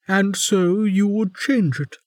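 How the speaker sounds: high, wry and amused; wry warden. A narrator's reading. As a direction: tease his idealism.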